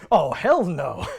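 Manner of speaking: mock stuffy British narrator line; lightly imitating an old British narrator. Retelling the show narrator's line, mild British imitation. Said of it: "the narrator goes".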